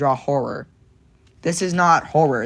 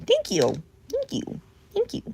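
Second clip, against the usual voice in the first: a sudden very high, soft squeak; squeaky thank you; 5 dB quieter than usual. Pretend. Thanking chat in a tiny squeak. Repeating thanks in silly voices.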